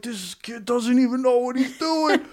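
high-pitched, strained mock yell; imitated outraged yelling. Angry gambler complaining about a clueless player, imitated high yell. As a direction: imitate a furious gambler losing his mind, voice shot way up. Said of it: "He's yelling".

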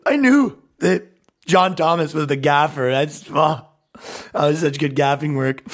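tearful, choked-up praise, hammed up; mock crying. Mocking a man who cries at movie credits, pretend weepy. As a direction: fake being moved to tears. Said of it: "He even cries in the credits".

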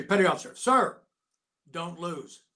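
barked gunny order; gunny pep talk. Retold or imitated. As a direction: bark it like a drill gunny. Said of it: "his usual pep talk".

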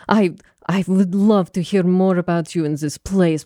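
gushing, fawning aristocrat voice; flighty flattering noblewoman. Retold or imitated. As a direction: lay the flattery on thick. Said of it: "but she'd do the, like".

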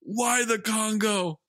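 high, drawn-out disbelief with laughter; incredulous. Real, not acted. Cohost baffled by the Congo line, high and incredulous. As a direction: demand why, baffled.

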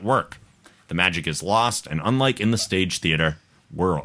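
measured, lilting read-aloud; listener email read-aloud. A narrator's reading. Host reading Kendra's email to listeners, measured read-aloud. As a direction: read the letter out for an audience.

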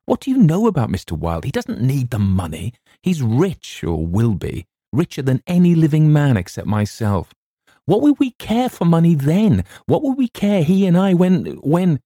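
high, loud, building feverish rant; rising outburst. A narrator's reading. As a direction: let the obsession boil over and climb. Narrator's rising unhinged outburst.

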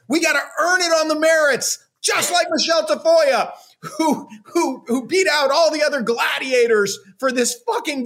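worked-up sarcastic tirade; angry rant. Real, not acted. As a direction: rail against her, voice up and pushing. Ranting mock of Tafoya.

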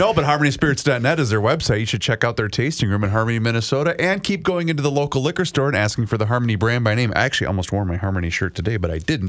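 quick, upbeat sponsor plug; sponsor ad read. Acted. Host plugging Harmony Spirits to listeners, quick ad-read patter. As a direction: rattle off the ad copy fast.

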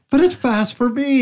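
high, drawn-out protest with a laugh; defensive comeback. Retold or imitated. Runner defending a slow time to a critic, high laughing protest. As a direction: plead your case in a high, stretched voice.

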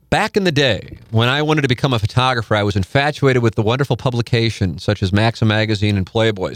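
reading a listener's story aloud. Acted. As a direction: read the submitted story with a bright lift. Reads erotic story aloud.

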